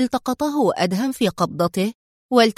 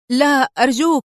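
higher, louder frightened plea; panicked cry; 4 semitones higher, 5 dB louder than usual. A narrator's reading. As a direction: beg for mercy in acted panic. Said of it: "صرخ الطيار في هلع". (صرخة توسل مذعورة)

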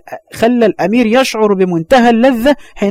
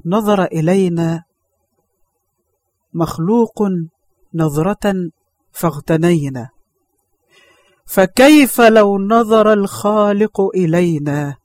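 tearful, moved; slower than usual. Acted. Girl's wise words, tearful.

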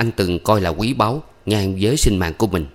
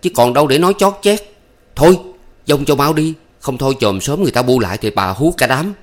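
heated scolding, higher and louder; raised voice; 6 semitones higher, 4 dB louder than usual. A narrator's reading. Nhâm raising his voice at Thắm, heated. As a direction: argue loudly, urging her off. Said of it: "Nhâm to tiếng".

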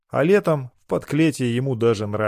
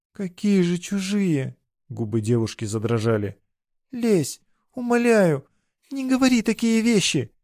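much higher, pleading voice; begging girl; 7 semitones higher than usual. A narrator's reading. Rejected girl begs her lover, pleading. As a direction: she begs him not to reject her.

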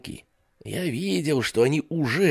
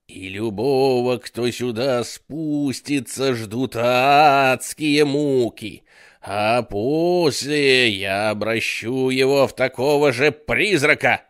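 louder, slow ghostly threat; menacing ghost; 3 semitones higher, 5 dB louder, slower than usual. Acted. Storyteller voices the ghost's threat, loud slow menace. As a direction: growl the curse like a ghost. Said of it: "говаривал призрак".

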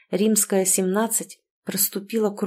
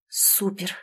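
hushed, softer exclamation; whispered awe; 6 dB quieter than usual. A narrator's reading. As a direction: breathe it out, stunned. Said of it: "прошептала Тоня".

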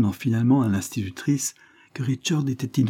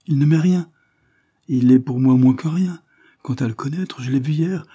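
louder and higher, indignant; vehement denial; 5 semitones higher, 6 dB louder than usual. A narrator's reading. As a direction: spit out the contempt. Barbara vehemently denying Levison.

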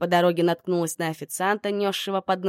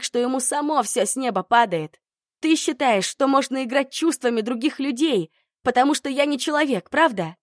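furious tirade; 4 semitones higher, 5 dB louder than usual. Acted. Heroine screams accusations at Emil.

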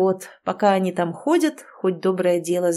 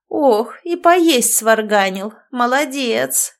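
медленно, по-старушечьи хваля; добрая старая ведьма, громко; старушечий голос; 3 semitones higher, 4 dB louder, slower than usual. Acted. Старуха хвалит Бьорка. (старуха хвалит Бьорка за похлёбку, по-старушечьи)

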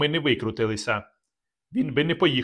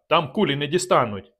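shouted; 2 semitones higher than usual. Acted. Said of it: "крикнув я".

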